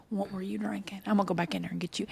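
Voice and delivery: whispered gentle offer to help; cichy, pocieszający szept. Retold or imitated. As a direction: speak softly, nearly whispering, to console her. Quietly consoling the crying mom.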